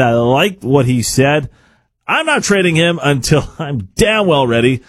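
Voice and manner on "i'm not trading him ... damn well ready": mock-defiant GM, slightly raised pitch; hammed-up refusal with a laugh in it; exaggerated defiant quote. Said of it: "he didn't say it like that".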